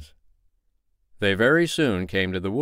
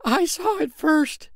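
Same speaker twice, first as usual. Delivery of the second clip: high, slow insistent cutting in; competing boast; slower than usual. Acted. Tinker interrupts to claim he saw it first, boastful. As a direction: claim the credit. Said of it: "said the tinker".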